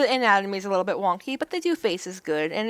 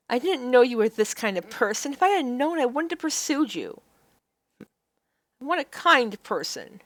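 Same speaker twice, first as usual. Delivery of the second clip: reading game choices; 3 semitones higher than usual. Acted.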